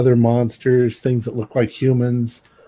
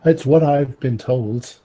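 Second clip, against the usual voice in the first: put-on Cockney accent; 3 semitones higher than usual. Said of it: "I have a, like, a Cockney accent".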